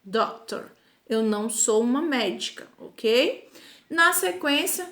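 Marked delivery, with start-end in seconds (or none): 0.0-0.7 drawn-out, careful example; teacher modelling a negative sentence slowly; slow model sentence. Shown as a demonstration. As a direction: say it slowly so students follow. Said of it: "se eu disser".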